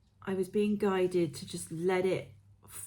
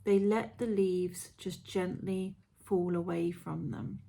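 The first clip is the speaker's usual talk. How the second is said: guided meditation. Acted. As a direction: read it like a gentle guided visualisation.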